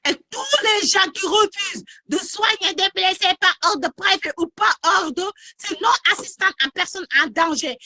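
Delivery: furious outcry, voice climbing high; angry. Real, not acted. Live rant against doctors refusing care.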